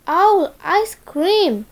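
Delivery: alarmed owl. Acted.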